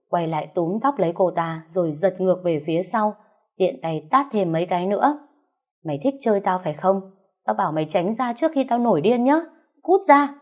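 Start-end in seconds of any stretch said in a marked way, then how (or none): 5.9-10.3 furious. Acted. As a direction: build to an explosive order to get out. Wife furious, slapping the mistress.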